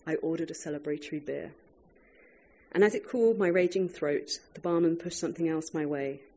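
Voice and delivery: measured literary reading voice; reading aloud. Acted. Author reads her food memoir to an audience, measured reading. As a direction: read the passage to a live audience, unhurried.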